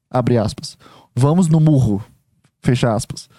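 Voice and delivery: low, dry quote-reading, punctuation spoken aloud; citação sem contexto. Shown as a demonstration. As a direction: read it out like a written quote, stripped of all playfulness. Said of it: "Se uma pessoa fala desse jeito". (citação lida em tom baixo e seco, sem brincadeira)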